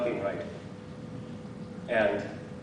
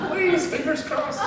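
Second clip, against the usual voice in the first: mock nervous hope; 14 semitones higher than usual. Mock Jesus hoping it works.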